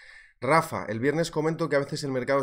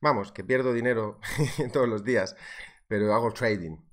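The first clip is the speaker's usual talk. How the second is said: higher, louder, rambling brag of a clueless trader; mock clueless trader; 5 semitones higher, 4 dB louder than usual. Streamer parodying a newbie trader bragging, mock proud. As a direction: play the proud newbie who loses money. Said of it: "Es verdad que dices que".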